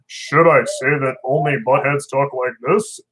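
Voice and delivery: slow put-on monster voice, lightly done. Joking to chat about buttheads, slow monster voice. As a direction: play a slow goofy monster, not too far. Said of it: "In my monster voice".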